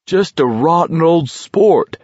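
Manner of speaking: high, drawn-out gleeful jibe; swooping, merry exclamation; laughing remark. A narrator's reading. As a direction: crow it with amused relish. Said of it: "McVrees laughed".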